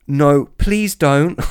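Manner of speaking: high, slowed pleading squeal; little girly voice. Retold or imitated. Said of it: "I shrieked out in this little girly voice".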